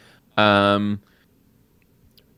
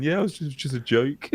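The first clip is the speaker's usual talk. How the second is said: a light, higher mock Brit brushing it off; mock British banter; 5 semitones higher, 5 dB quieter than usual. A Brit shrugging off an insult, light mock voice. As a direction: toss it off as a cheeky British joker. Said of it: "telling people to go F themselves and going".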